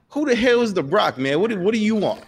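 a lightly voiced thug, high and challenging; goon snapping. Goon demanding who the stranger is to ask questions, sharp and high. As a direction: bark it back at the nosy stranger.

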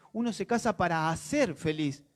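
careful quote, weight on "hacer"; measured retelling that sets "hacer" apart; deliberate. Retold or imitated. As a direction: repeat it deliberately, lengthening "hacer". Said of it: "me dijo después detenidamente".

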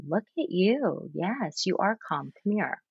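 put-on calm a child down slowly and low. Shown as a demonstration. Parent grounding a scared daughter, low and slow. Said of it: "this low and slow late night F M D J voice".

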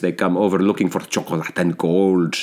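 put-on light Spanish accent; hint of a Spanish accent. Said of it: "for doing a Spanish accent".

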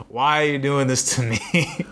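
slow, drawn-out mock despair; exasperated plea. Ignored employee pleads with supervisor, mock exasperated. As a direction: stretch it into a hammed-up helpless plea.

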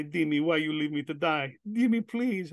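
high, pleading movie-mother voice; mock pitiful plea, rising in pitch; imitating his mother. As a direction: beg as the abandoned mother, hammed-up. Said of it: "And she'll say".

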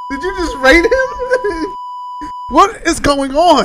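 slow, laughing disbelief; laughing through words. Real, not acted. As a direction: ask it while cracking up. Laughing while asking.

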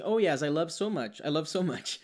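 slow, earnest learner's wrong English; mock learner. Student answers about cooking, slow and earnest. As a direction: say it slowly like a keen student. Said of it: "a pessoa fala assim".

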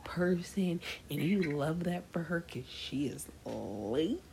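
slow, offended best-friend voice; mild mock indignation. Imitating Talia scolding her best friend, slow and offended. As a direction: drag it out like a jealous friend scolding. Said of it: "she was mad".

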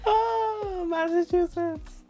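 very high, drawn-out moment of recognition; high-pitched amused discovery; sudden realisation. Real, not acted. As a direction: exclaim it as it finally clicks. Suddenly recognises the mispronounced word.

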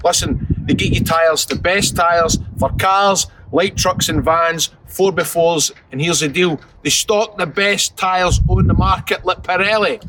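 slow, measured sponsor read; deliberate advertising patter, item by item. Acted. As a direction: sell it like a podcast advert.

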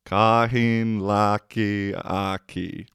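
slow Savo "Kahin laki aki", each syllable drawn out; careful slow "Kahin laki aki"; slow repeat. Shown as a demonstration. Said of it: "repeats dialect word slowly".

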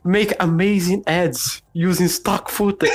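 mock ad read. Parodying a recorded ad read.

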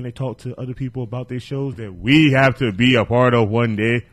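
lightly put-on African accent. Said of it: "Putting straight up African accent on that".

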